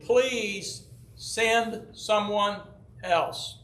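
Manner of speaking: slow, drawn-out entreaty; pleading. Acted. Moses begs the Lord to send another, pleading. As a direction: stretch each word into a measured plea. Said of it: "Moses again pleaded".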